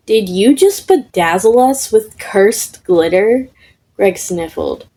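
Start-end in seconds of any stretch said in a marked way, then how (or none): 0.1-3.5 ghost takes it personally; offended ghost. Acted. Ghost outraged at being glittered, indignant. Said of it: "Popcorn Ghost looked offended".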